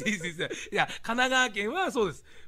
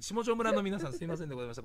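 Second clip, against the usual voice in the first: mock press apology; 2 semitones lower, faster than usual. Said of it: "これから謝罪会見入りますのでね".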